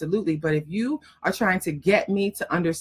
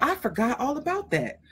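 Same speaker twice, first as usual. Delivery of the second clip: much higher, lively voice of a client suddenly remembering her life; gushing, much higher amazed recollection; excited client remembering; 6 semitones higher than usual. Retold or imitated. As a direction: play the client gasping at everything she forgot, pitched way up. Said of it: "and they be like".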